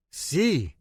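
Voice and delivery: put-on Spanish "Si" with a Hispanic accent; thick Hispanic accent. A narrator's reading. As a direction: say it like a Hispanic speaker. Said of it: "he said in a thick Hispanic accent".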